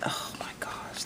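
breathy, hushed gasp of delight; real whispered wonder; awed whisper. Real, not acted. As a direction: whisper it in amazement. Awed reaction to a gift.

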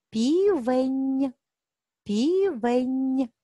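"Півень" with the final soft нь held long; stretched soft N. Shown as a demonstration. Teacher asks children for the sound, "Півень" with lengthened final нь. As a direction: slowly say "Півень", humming on the last нь. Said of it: "звук Н".

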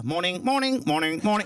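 "Morning" as a minimal British greeting; British reserved greeting. Shown as a demonstration. Demonstrating how Brits speak, a tight-mouthed "Morning". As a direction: barely articulate each polite "Morning". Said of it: "Think of how we speak here".

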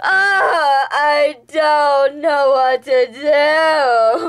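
hammed-up wail; overacted despair; dramatic wailing. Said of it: "I'm dramatic".

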